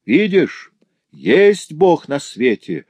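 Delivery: high, loud triumphant cry, slow on the end; widow's cry. Acted. Widow triumphs over the accused girl, loud high cry. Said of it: "крикнула вдова".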